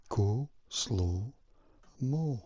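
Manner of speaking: slow, spaced-out words; slow motion. Shown as a demonstration. Vlogger demonstrating slow-mo relaxation to viewers, slow motion. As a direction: draw out each word with gaps between. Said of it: "slow motion, bring your voice down".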